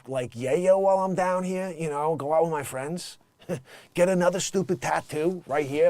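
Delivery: lightly put-on Brooklyn accent; offhand mock New York talk. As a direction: imitate a casual New Yorker visiting Miami. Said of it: "with a New York accent".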